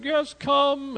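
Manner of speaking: high, loud eager invitation; eager altar call. Retold or imitated. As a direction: call people forward with excitement. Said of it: "other people are like".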